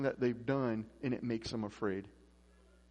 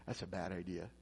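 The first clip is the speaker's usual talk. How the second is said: low, hushed voice of conscience; quiet inner warning; little inner voice; 8 semitones lower, 9 dB quieter than usual. Retold or imitated. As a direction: drop low and soft, like a thought in the head. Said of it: "that little voice in your head".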